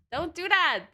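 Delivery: sharp, high, loud "stop it" at the cat; scolding shout. Real, not acted. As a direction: yell at the cat to quit it.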